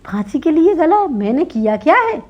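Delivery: high, loud alarmed question; shocked protest. Acted. Laborer crying out to the minister, high and alarmed. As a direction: cry out in disbelief.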